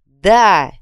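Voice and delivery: crowd shout. A narrator's reading. Crowd answers the prince.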